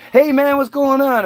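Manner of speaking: high, slow mock-friendly hello; slow high mock 'hey man'; imitating greeting. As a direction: parrot their fake friendliness. Mocking others' greeting.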